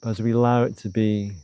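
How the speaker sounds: calm, unhurried meditation guidance with long pauses; guided meditation. Real, not acted. Teacher leading a short meditation on tension, calm guided-meditation voice. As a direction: ease the listener inward, leaving space between phrases.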